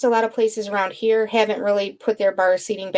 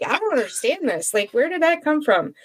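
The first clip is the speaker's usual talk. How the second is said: higher-pitched, mock-baffled questioning; baffled self-quote; 6 semitones higher than usual. Puzzling to co-hosts over the governor's accent, baffled. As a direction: quote your own bewilderment, lifting the pitch.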